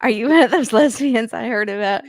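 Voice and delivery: hammed-up Southern questioning; Southern accent. Co-host replaying the boyfriend's question, mock Southern accent. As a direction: repeat it in a put-on Southern accent. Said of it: "I don't know why I made him Southern".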